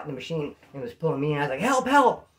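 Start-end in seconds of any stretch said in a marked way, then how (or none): 1.6-2.3 higher mock yell for help; acted panicky calling; retold cry for help. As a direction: call out as if caught in a machine. Retold cry for help while stuck.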